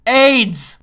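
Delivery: mock announcing the gag; mock punchline. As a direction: sell the joke sarcastically. Sarcastic punchline shout.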